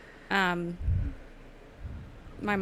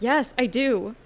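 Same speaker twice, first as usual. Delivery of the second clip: imitating mom; 4 semitones higher, 8 dB louder, slower than usual. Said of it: "And she was like".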